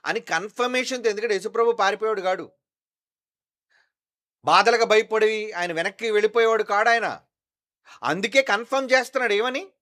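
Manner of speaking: high, loud fervent preaching; full-force preaching. Acted. Pastor insisting to the congregation, loud preaching. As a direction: drive the point home to the church.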